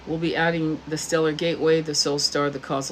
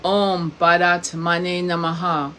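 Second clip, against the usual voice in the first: slow, measured mantra chant; steady, drawn-out repetition; mantra recitation; slower than usual. Shown as a demonstration. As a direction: intone it slowly, giving each word weight. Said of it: "Say it three times".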